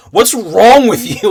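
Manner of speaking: loud, drawn-out mock scream; retold screaming in face. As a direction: imitate someone screaming in frustration. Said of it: "screaming in his face".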